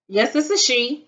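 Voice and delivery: prim, polite phone voice; all proper. Retold or imitated. Answering an unknown caller late at night, prim and proper. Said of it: "I'm trying to be all proper".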